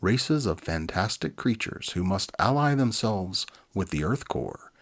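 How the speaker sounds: ordinary delivery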